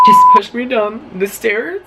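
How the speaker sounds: high, loud, drawn-out mock wail; crying, screaming. Phoning mom from the bathroom, hammed-up screaming cry. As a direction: wail it slowly like a hysterical kid. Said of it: "I'm crying and screaming in the bathroom".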